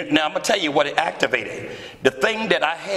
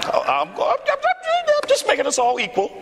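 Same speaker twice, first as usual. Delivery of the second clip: laughing. Real, not acted. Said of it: "laugh shout".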